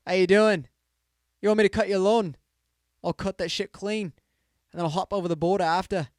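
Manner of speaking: a loud, clownish English Mexican voice; mock English Mexican accent. Podcaster hamming an English Mexican accent for a joke bit, loud and silly. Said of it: "An English Mexican?".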